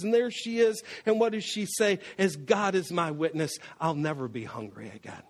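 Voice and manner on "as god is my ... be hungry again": Scarlett O'Hara vow. Retold or imitated. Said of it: "here's Scarlett".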